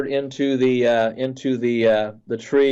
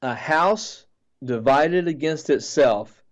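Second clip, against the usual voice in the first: slow, measured declaration, only mildly raised; retold loud proclamation; much slower than usual. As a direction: proclaim it word by word, with weight on "shall". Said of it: "in a very, very loud voice".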